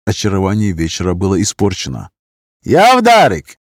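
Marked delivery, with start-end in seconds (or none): 2.6-3.6 put-on loud high drunken shout; calling out. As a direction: yell across the restaurant. Drunk Roma man calls out.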